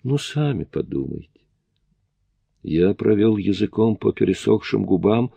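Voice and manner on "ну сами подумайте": мягко и тихо, с улыбкой; ласково, с улыбкой в голосе; tender. A narrator's reading. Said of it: "Она нежно улыбнулась". (нежно)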